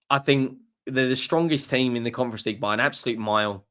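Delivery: talking through hiccups; hiccuping mid-sentence. Real, not acted. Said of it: "apologies for the hiccups".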